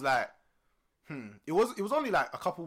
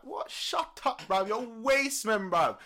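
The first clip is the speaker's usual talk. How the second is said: playground insult, pitched up; retold outburst; 7 semitones higher, much slower than usual. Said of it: "I'm like".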